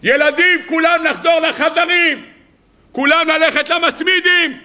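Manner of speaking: high, drawn-out PA call; public-address announcement. Acted. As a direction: call the children back as over a loudspeaker. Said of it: "לקחת מערכת כריזה ולהגיד". (כריזה ברמקול בקול גבוה)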